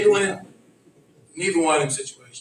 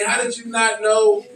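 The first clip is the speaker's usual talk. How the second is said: incredulous; 3 semitones higher than usual. Retold or imitated. Incredulous challenge repeated.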